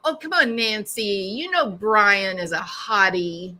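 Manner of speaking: taunting. Retold or imitated. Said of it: "it was along the flavor of".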